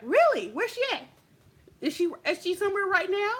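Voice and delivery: high, quick mock-eager questions; hammed-up eagerness. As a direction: sound hungry for the fight. Eager to find rival.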